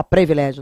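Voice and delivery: "privilégio" as "previlégio"; pronúncia errada. Shown as a demonstration. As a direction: open with PRE in "privilégio". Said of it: "Muita gente fala". ("privilégio" com E no começo: "previlégio")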